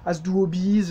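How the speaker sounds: slow French-accented German, H dropped; mock a French learner, dragging out the German. Shown as a demonstration. Teacher mimicking learners' bad German, slow French accent. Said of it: "au moins, vous aurez pas l'accent, euh, français".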